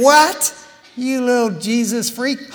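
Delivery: old friends mocking his second service, high, loud sneer; jeering friend. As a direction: scoff at the Jesus freak. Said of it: "what they used to say to me".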